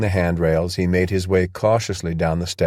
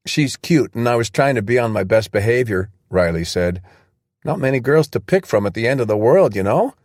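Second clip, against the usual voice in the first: put-on cocky young guy; 4 semitones higher than usual. Riley voiced higher, joking.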